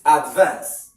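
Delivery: advance as a verb, loud weight on VANCE; stress on second syllable. Shown as a demonstration. Teacher repeating the verb for students, second-syllable stress on advance. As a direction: hit VANCE in advance, drawn out. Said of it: "as a verb".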